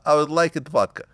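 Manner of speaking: lightly put-on Russian accent. Shown as a demonstration. Host giving the comic an example, in a Russian accent. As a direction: demonstrate Russian-accented broken English. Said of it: "Russians always throw it in there".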